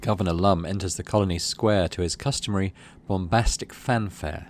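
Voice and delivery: steady storytelling read; story narration. Acted. Player reads the game's event aloud as story narration.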